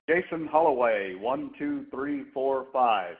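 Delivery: muffled voice, as if through a hand. Real, not acted. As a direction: speak with a hand over the mouth. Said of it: "like, muffled in a way".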